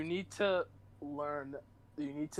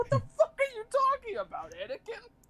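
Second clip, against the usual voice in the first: sheer incredulous disbelief, voice high and loud; 5 dB louder than usual. Retelling how the character reacts in the scene: imitating incredulous Obi-Wan. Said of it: "He's just sitting there like".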